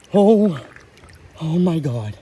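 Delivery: loud high yelp of joy; real thrilled shriek at the catch; excited shout. Real, not acted. Catching a big trophy trout.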